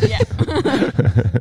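mock reply to the nickname; mimicking a reply. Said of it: "you said, "Hey, Frenchie".

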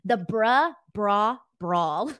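"The bruh, bra, brawl" said loudly as a tongue twister; tongue twister read out. Shown as a demonstration. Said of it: "that's a good tongue twister".

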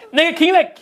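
high-pitched, laughing retort; imitated comic delivery. Retelling a joke about Shaq, high incredulous imitation. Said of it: "how he said it was just like".

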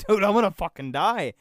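exasperated mock plea; retold protest. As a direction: protest it emphatically, voice jumping up.

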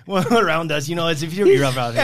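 hammed-up Mexican accent, chummy; mock Mexican accent. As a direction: joke along in a put-on Mexican accent.

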